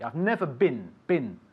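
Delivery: "been" said like "bin"; short vowel in been. Shown as a demonstration. Teacher models the correction, "been" pronounced like "bin". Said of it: "Yeah, been".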